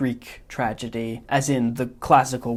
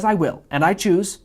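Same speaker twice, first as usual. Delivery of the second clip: louder, higher, rapid self-pleased reasoning; Wallace Shawn's Vizzini; 7 semitones higher, 5 dB louder than usual. Acted. Vizzini lecturing the Man in Black on the poison, loud and smug. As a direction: build the logic faster like a gloating genius. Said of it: "mimicking Wallace Shawn's inflection".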